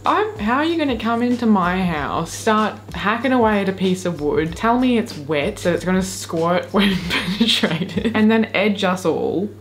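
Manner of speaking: mock outrage. Mock betrayal at teasing video.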